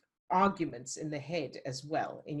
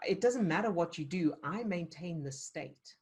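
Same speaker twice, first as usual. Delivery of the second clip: calm steadfast; slower than usual. Shown as a demonstration. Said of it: "This is".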